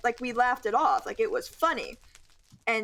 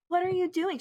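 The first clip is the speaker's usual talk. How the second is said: much higher-pitched mock teacher; exaggerated teacher question; 9 semitones higher than usual. Student parodying how teacher didn't ask, exaggerated. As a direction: overdo it as how she didn't sound. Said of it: "she wasn't like".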